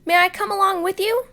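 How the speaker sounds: high, quick eager duck voice; eager duckling. Acted. Ducky Lucky begging to come along, high and quick. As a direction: ask to tag along in a rush.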